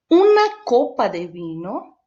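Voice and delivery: "Una copa de vino" said slowly and clearly; slow Spanish model. Shown as a demonstration. Teacher modelling Spanish vocabulary, slow. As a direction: lay out each word of "Una copa de vino". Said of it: "vamos entender em espanhol".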